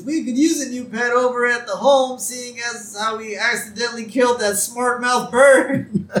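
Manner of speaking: put-on high, loud cranky old-man voice; Grandpa. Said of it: "And then we see Grandpa".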